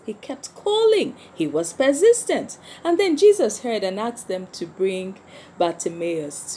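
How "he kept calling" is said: "He kept calling" pitched much higher; high emphatic repeat. Acted. Teacher repeating to the children, much higher on "He kept calling". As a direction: lift "calling" right up to stress it.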